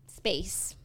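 hushed dramatic whisper on space; an awed little whisper. Acted. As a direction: breathe the word like a secret. Dramatic reveal of ending.

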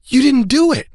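high hurt reproach; pouting daughter. Retold or imitated. Daughter reproaching dad at the door, pouting. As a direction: pout that he forgot. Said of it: "she goes".

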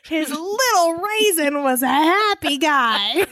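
slow, giggling mock narration; laughing as she says it. Real, not acted. Giggling over a crude joke.

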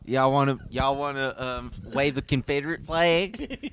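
lightly put-on Southern accent; improvised Southern accent, feeling for words. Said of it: "do a Southern accent".

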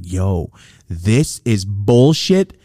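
drawn out, very slow; fed-up complaint; slow disgusted. Retold or imitated. Disgust at friend arrested.

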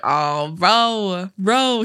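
imitated New Zealand accent; comic Kiwi drawn vowels. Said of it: "Adam does the funniest Kiwi accent".

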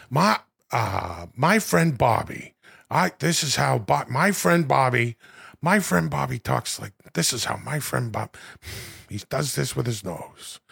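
lightly voiced, trailing impression of an impression; Al Pacino doing Robert De Niro. Pacino imitating his friend Bobby, a light impression of an impression. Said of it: "This is Al Pacino doing".

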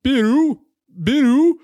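loud, high imitation cat call; weird European meow. Mocking how Europeans voice a cat, weird high meow. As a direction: stretch it out like an odd foreign meow. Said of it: "some weird fucking sound that makes no sense".

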